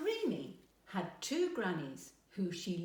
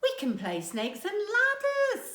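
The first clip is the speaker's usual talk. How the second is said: much higher, louder keen suggestion; eager offer; 13 semitones higher, 8 dB louder than usual. A narrator's reading. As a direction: jump in first. Grannies vie over games.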